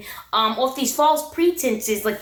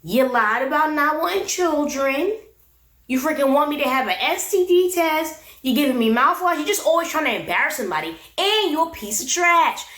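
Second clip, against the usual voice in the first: imitated telling-off, building to a higher finish; going off on him; 4 semitones higher than usual. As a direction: retell a furious accusation, each charge stretched. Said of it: "Rose went off on him".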